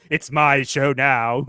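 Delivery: slow gloating villain line; mad scientist. Pretend. Gloating after evil cackle.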